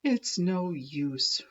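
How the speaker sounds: Ricky sighing, dejected. Acted. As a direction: give up with a sigh. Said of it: "Ricky sighed".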